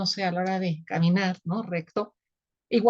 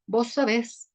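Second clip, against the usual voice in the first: "sabés" stressed on its last syllable, "BÉS"; stress on final syllable; 3 semitones higher, slower than usual. Shown as a demonstration. Teacher shows the Argentine conjugation, "sabés" stressed on "bés". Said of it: "lleva acento porque es aguda".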